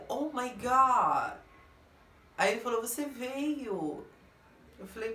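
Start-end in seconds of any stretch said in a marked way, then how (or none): 0.1-1.4 high, drawn-out exclamation of shock; acting out someone's stunned reaction; mock shock. Acts out his startled reaction. 2.8-4.0 higher, slowly drawn-out question; imitating a surprised man; mock surprise. Acts his surprise at her arrival.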